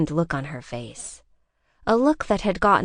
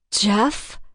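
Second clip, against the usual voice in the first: fearful call; 3 semitones higher than usual. A narrator's reading. Sees her car burning.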